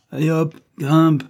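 slow, loud, high command; barked order. A narrator's reading. Banquiste orders weak child up, barked order. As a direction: call it out, drawing out each word.

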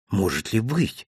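sympathetic. A narrator's reading. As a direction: feel sorry for him. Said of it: "сочувственно покачал головой хозяин". (сочувственно, тише и ниже)

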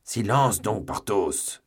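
sharp rebuke. A narrator's reading. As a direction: cut him off with a scolding. Athos rebukes Porthos for interrupting.

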